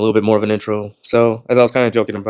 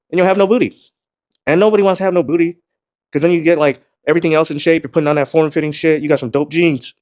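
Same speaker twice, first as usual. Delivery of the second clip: excited high pitch; 6 semitones higher than usual. Real, not acted. Joking about no booty.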